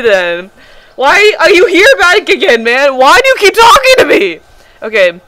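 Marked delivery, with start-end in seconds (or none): 0.9-4.4 high, loud put-on voice; puzzled camp stranger; pioneer character voice. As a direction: play the odd pioneer.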